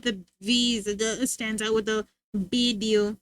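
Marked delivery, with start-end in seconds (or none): 2.3-3.2 put-on Spanish-accented "bideo"; mom's Spanish accent. Showing how mom says video, Spanish accent. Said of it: "with the B instead of V".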